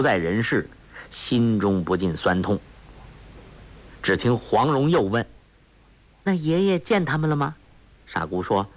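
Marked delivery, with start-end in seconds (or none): 6.2-7.6 a hint of a sweet coaxing young girl; lightly voiced clever girl. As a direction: lift the voice a little to coax a simple girl. Huang Rong asks.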